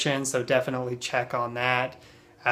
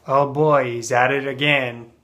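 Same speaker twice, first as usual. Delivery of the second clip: put-on louder, weary "oh boy"; exasperated at someone's usual antics; acted mild dismay; negative; 5 dB louder than usual. Shown as a demonstration. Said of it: "in a negative sense".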